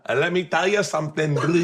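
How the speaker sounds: a loose try at South African; mock South African accent. Golfer answering the accent challenge, mock South African. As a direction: play a South African, badly. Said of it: "South Africa".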